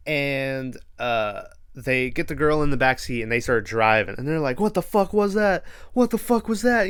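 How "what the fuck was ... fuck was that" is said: mock panicked disbelief. Friends fleeing in car, retold.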